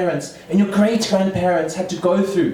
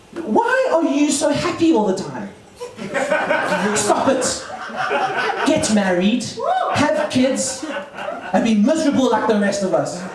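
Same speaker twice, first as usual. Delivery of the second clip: hint of a parent pleading with their child; exasperated parents. Parents' real message to their son, mock exasperation. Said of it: "what my parents are really trying to say".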